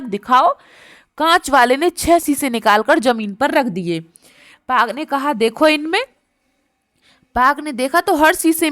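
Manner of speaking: put-on story reading to children. Teacher reading the tiger story to pupils, lively. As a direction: tell the tale brightly for the kids.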